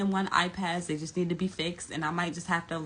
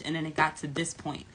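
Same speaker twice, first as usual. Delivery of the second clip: normal talking voice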